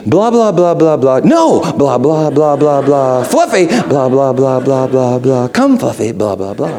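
lightly voiced shepherd calling, sing-song blah blah; playful sing-song shepherd babble; shepherd's voice to a sheep. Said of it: "This is what it sounds like".

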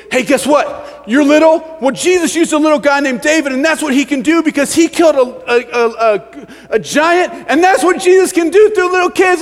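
high, loud, eager Sunday-school storytelling; hammed-up excited children's teacher; hyping to kids. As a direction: sell the tale to children with mock wonder.

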